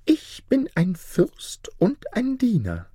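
very high, slow, unvoiced spirit whisper; high eerie ghost whisper. A narrator's reading. Spirit introduces itself.

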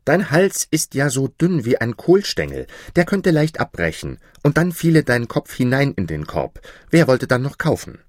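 put-on loud, high, angry boy; angry shout. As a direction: keep yelling at her. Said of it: "rief der Kleine wütend".

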